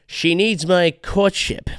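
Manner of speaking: slow, smug rising mock; fedora-guy mock. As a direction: sneer it with a rise. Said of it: "wearing a fedora".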